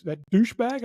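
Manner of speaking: high-pitched retold contempt; lightly voiced irate insult; mad drill sergeant. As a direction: imitate an angry Marine's jab. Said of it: "he was mad".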